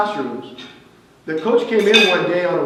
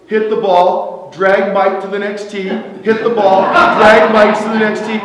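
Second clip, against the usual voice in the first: building insistence; 5 dB louder than usual. Retold or imitated. Coach retelling dragging dead partner.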